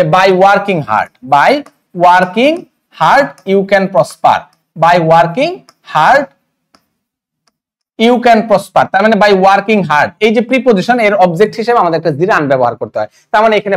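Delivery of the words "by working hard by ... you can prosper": teacher repeats the example sentence to the class, slow and broken into chunks with pauses; slow dictation. Shown as a demonstration. Slow, chunked "by working hard you can prosper". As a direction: read it out slowly, phrase by phrase. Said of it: "আমি কি বলবো?".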